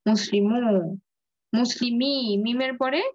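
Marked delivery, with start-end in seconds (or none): 0.1-0.6 মুসলিমু with a held final "muu"; waw kept. Shown as a demonstration. Teacher shows waw remains after meem, long u. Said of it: "মিমের পরে ওয়াওটা থেকে যাবে". 1.5-2.1 মুসলিমি with a long final "mii"; ya kept. Shown as a demonstration. Teacher shows ya after meem, long i. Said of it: "ইয়াটা".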